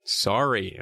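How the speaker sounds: Sari said SAH-ree; chosen pronunciation. Shown as a demonstration. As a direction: say Sari with an open "ah" first. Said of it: "let's go with Sari".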